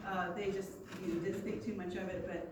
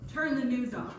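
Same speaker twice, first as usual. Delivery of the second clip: repeated louder command; firm big-brother order; 3 semitones higher, 6 dB louder than usual. Retold or imitated. Brother repeating his order to his sister, firm and louder. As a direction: insist like an older brother. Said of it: "he said it like that".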